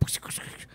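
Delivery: quiet, voiceless sputter of clicks; imitated rapid button-punching noise. Showing young kids ordering with ease, imitated button noise. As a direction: mimic fast key presses with the mouth.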